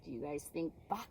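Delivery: quick unvoiced whisper. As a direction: lean in and whisper. Hushed question to kids.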